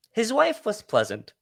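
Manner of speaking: high-pitched, laughing through the words; real amused laughing. Real, not acted. Storyteller correcting which wife was pleasant, really laughing. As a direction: crack up while making the correction.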